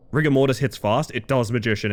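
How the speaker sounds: ordinary delivery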